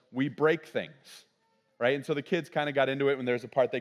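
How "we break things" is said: slow, spaced chant of the motto. Retold or imitated. Team motto joked among the volunteers, slow and deliberate. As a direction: draw the motto out slowly. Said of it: "our motto was".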